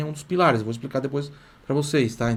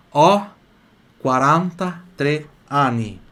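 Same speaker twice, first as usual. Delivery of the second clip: "ho quaranta e tre anni" in slow, separated words; 4 dB louder, slower than usual. Shown as a demonstration. Teacher modelling age for students, slow word by word. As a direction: punch "ho", pause, then stretch "quaranta e tre anni". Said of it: "eu falo assim".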